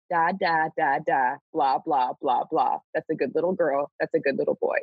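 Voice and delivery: sing-song, patronising baby babble, lightly voiced; mock baby talk. God addressing the people like toddlers, mock baby talk. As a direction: coo at them like toddlers, one syllable at a time. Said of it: "address them in baby talk".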